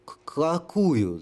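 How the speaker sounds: mild frightened stutter; stammering. Acted. Holy fool to the sapper, a mild stutter. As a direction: stammer out the question slowly. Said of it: "заикаясь".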